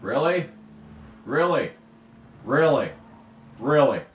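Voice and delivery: indignant at being passed; incredulous. Real, not acted. Rival passes with zero fanfare.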